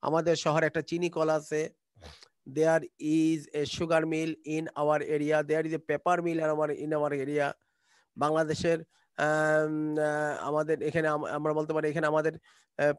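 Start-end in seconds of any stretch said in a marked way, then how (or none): 2.6-7.5 very slow dictation pace; slow model sentence. Shown as a demonstration. Teacher modelling English sentence to class, very slow. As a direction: spell out each word slowly for learners. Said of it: "model sentences".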